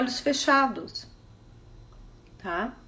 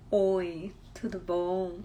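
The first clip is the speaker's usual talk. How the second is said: much softer, lower "Oi, tudo bom?"; soft low greeting; 6 semitones lower, 7 dB quieter, much slower than usual. Shown as a demonstration. Teacher demonstrating one tone of voice to students. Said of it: "se você falar comigo assim".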